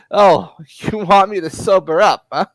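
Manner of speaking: loud sneering comeback; loud scornful hustler; mocking schemer. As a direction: taunt him, then rush off. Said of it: "just snorts and just says".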